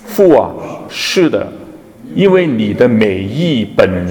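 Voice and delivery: measured congregational Bible reading; slow scripture reading. Real, not acted. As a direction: read it out phrase by phrase with pauses. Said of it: "我们一同来读，慢慢读".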